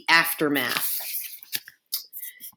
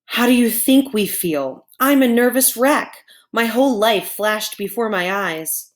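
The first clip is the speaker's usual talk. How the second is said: high-pitched, agitated cow, getting louder on the protest; worked-up, indignant complaint in a raised pitch; frazzled outburst; 6 semitones higher, 3 dB louder than usual. A narrator's reading. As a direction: blurt it out like a nervous wreck. Frazzled cows answer the robot.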